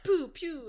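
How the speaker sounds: playful pew-pew gun noises; mouth-made shooting sound effect; imitated gunshots. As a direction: mimic shots being fired. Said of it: "he's like".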